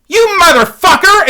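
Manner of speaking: loud, high-pitched furious shout; full-voiced shriek of accusation; enraged mock scream. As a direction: imitate a woman screaming in rage. Acting enraged girlfriend lunging at him.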